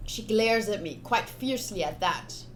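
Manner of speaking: reading the story text aloud; steady storyteller reading of the game text; narration read aloud. Acted. Player reading game text to viewers, narration voice. Reads visual novel narration.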